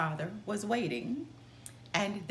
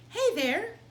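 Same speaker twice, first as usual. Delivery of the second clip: calling out; 11 semitones higher, 5 dB louder than usual. A narrator's reading. Stranger calls to woodcutter.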